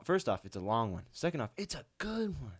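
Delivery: lightly mocking co-host, pitch jumping up; imitating co-host. Teasing co-host about what she said last time, playful imitation. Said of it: "You were like".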